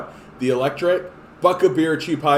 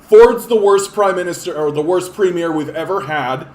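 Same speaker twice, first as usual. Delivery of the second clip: attack ad; 3 semitones higher, 7 dB louder than usual. Retold or imitated. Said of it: "Del Duca's gonna come out and be like".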